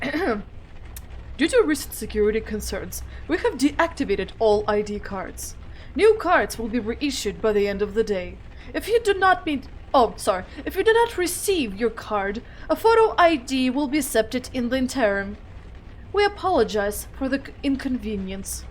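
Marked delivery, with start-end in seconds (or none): 0.0-9.7 put-on formal announcement, mostly lower; measured mock-official bulletin; weird official-notice voice. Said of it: "giving weird voices to everyone". 10.6-18.6 lightly put-on formal announcement; mildly mock-official notice; weird official-notice voice. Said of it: "giving weird voices to everyone".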